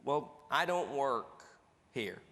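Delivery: slow, offhand brush-off; lightly voiced indifferent shopper; dismissive customer. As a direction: shrug it off like it's not your problem. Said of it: "Here's the answer you'll get".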